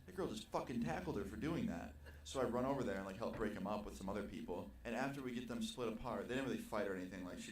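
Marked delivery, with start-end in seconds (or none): 0.1-1.9 stunned. Retold or imitated. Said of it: "And I was like".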